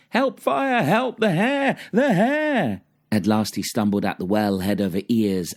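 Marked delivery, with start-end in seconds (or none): 0.1-2.8 high-pitched panicked cry for help; acted frantic shriek; calling out for help. A narrator's reading. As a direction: cry out in alarm, voice shooting way up high. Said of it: "hears him call out everywhere".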